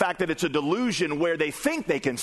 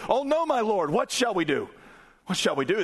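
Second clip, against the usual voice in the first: panicked servant; 5 semitones higher than usual. Acted. Servant sees army surrounding city.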